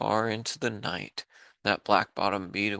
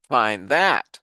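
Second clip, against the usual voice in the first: sneered; 7 dB louder than usual. Acted. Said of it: "sneered the bird".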